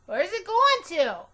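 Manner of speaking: put-on high, loud puzzled little girl; shrugging and asking; Junie B voice. A narrator's reading. Girl asking teacher where the bus goes, high and loud. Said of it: "I made my shoulders go up and down".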